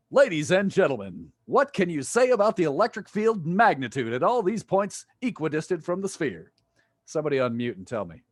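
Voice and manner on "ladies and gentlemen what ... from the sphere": a hint of a showman calling to the crowd; mock announcer. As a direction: address the class like a ringmaster. Announcer-style address to class.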